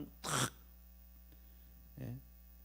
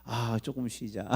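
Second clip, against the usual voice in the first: lazy complacent believer; 2 semitones lower, 4 dB quieter than usual. Retold or imitated. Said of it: "이렇게 해요".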